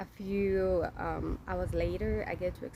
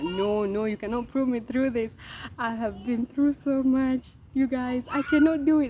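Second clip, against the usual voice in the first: retold plea, louder and rising higher; desperate protest; 4 semitones higher, 7 dB louder than usual. Patient refuses a second stitching from head nurse, desperate protest. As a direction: act out begging to be spared, building in force.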